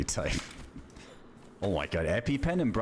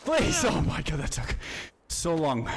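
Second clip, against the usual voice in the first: desperate plea; 9 semitones higher than usual. Real, not acted. Gamer frantically pleading as the fight drags on. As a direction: beg for it to finally end.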